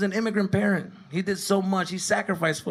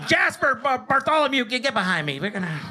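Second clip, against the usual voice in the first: calling out; 7 semitones higher, 3 dB louder than usual. Retold or imitated. Ref calling players.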